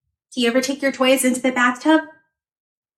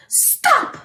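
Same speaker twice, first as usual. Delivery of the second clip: mock shout. Retelling Carter's call to the truck, high mock shout. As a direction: call out stop, higher. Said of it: "Carter's telling puppy truck".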